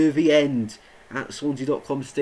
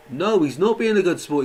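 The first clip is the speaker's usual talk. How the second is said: indignant; 4 semitones higher, 5 dB louder than usual. Real, not acted. Preston refuse to return ball.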